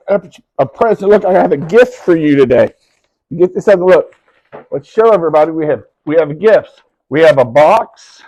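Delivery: loud, eager gift reveal; excited reveal. Real, not acted. Showing gifts to excited child.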